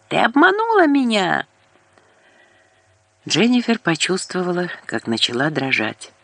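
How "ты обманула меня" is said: higher, strained furious accusation. A narrator's reading. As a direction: hurl the accusation high. Furious caller on the phone.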